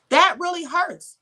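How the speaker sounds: That punched, really hurts slowed; slow emphatic repeat. Real, not acted. Driving home the point to viewers, slow emphatic stress. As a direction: lean hard on That and slow down.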